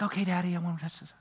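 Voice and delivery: put-on soft, meek child voice; hushed daughter promising; little girl's reply. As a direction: daughter softly promises her daddy. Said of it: "She's like".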